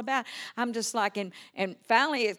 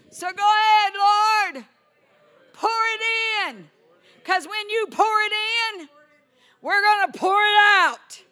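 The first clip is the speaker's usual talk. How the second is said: high, loud rising proclamation; ecstatic preaching; 12 semitones higher, 10 dB louder, slower than usual. Acted. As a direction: lift the whole room with it.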